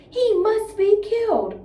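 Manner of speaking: high, loud, slow furious cry; angry cry. Acted. Bean crying out against the fox, a high loud furious cry. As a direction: demand it with fury. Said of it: "cried Bean".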